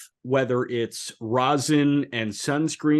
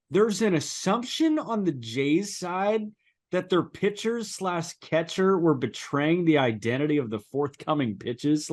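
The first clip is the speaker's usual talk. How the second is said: sarcastic reading; 3 semitones higher than usual. Pretend. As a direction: read it aloud dripping with sarcasm. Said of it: "read it in your sarcastic tone".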